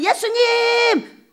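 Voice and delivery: crying out to Jesus. Acted. Sinking man calling Jesus, a long cry. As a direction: stretch out the call for help. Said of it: "세상에 빠지면".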